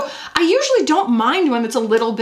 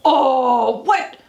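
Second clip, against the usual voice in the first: excited gasp; 6 semitones higher, much slower than usual. Real, not acted. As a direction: gasp it in delighted shock. Reacting to blush swatch.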